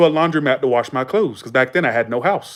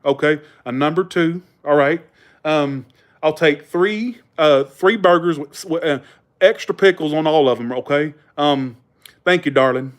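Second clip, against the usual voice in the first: mock Southern order-taking; exaggerated Southern accent. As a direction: lay the Southern accent on a little thick. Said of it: "being a little exaggerated".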